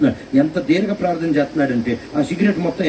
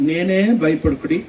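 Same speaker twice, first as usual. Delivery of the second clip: Jesus reassuring. Acted. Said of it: "అని అన్నాడు".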